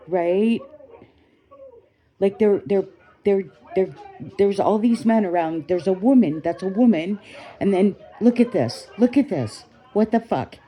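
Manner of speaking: outraged. Real, not acted. Ranting at the video of the woman dragged to the ground, heated. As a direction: let the outrage spill out as you watch.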